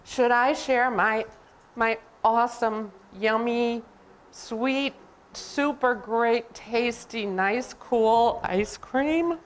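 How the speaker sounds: slow, lingering list, word by savoured word; elephant torn over sharing. Acted. Elephant wondering whether to share with Piggy, torn and savouring. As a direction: dwell on each treat word, slowly.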